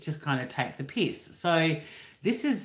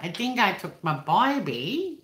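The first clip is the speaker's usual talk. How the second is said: slow, put-on Cockney twang, higher pitched; mock film-Cockney impersonation; 4 semitones higher than usual. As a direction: draw out "baby" into a rising "byebee". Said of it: "I wouldn't be like".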